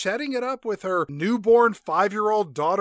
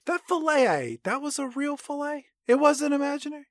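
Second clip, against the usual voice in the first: mock disbelief; 8 semitones higher than usual. Stunned, mock-naive questions.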